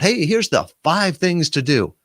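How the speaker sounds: mock eager rush straight into the list; eager rushed answer. Shown as a demonstration. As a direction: rattle it off like someone desperate to please. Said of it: "I'm not gonna just jump in and list out".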